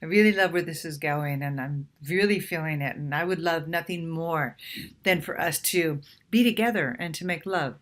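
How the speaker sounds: soft, low, intimate murmur to a date. Shown as a demonstration. Woman to her date while kissing, soft and tender. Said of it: "What you can say is".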